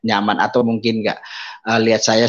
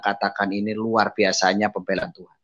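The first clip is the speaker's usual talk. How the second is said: ordinary talk, nothing marked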